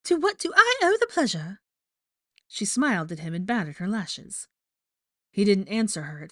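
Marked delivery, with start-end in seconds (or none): 0.1-1.6 very high, loud, fake-sweet trill; high, falsely chipper character voice; Rita Skeeter, falsely chipper. A narrator's reading. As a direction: gush with false cheer. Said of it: "in her falsely chipper voice".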